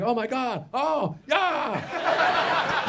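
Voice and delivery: high, squealing mock delight; niece thrilled. Niece opening gift cards, mock thrilled squeal. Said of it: "she was like".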